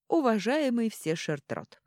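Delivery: slow, polite dwarf address; courteous call to the driver; normal tone. A narrator's reading. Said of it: "добавил обычным тоном". (вежливое обращение)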